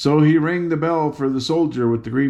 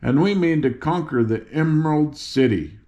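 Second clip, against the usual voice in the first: impatient; 3 semitones higher than usual. Acted. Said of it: "stamping her foot impatiently".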